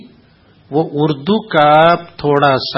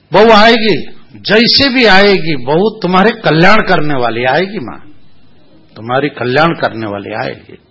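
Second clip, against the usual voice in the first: hamming up the all-knowing guru; a staged, grand oracle voice; mock oracle pronouncement; 3 semitones higher, 4 dB louder than usual. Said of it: "हमने भी नाटक शुरू किए".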